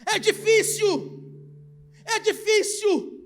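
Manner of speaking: loud pulpit preaching, pressing each phrase; fiery preaching. Acted. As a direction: preach it hard to the congregation. Preacher at full force. (pregação inflamada e forte)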